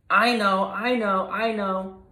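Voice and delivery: high, loud eager cry; can't wait to blurt the answer. Acted. Gruntley shouts out his guess, excited. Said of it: "cried Gruntley".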